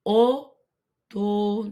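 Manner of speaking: "Otoño" slow and split, "o... to... nyo"; ny sound. Shown as a demonstration. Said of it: "make a ny sound".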